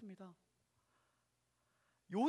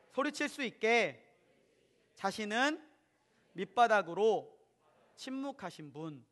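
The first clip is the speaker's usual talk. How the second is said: louder, slow phrases for the church to repeat; slow call for repetition; 7 dB louder, slower than usual. Shown as a demonstration. Preacher leading the congregation in repeating, slow and loud. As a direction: dictate each phrase slowly so they can echo it. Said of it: "따라하겠습니다".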